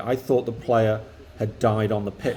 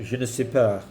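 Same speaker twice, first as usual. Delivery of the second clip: voicing Lacazette; 3 semitones lower than usual. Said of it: "You're Lacazette".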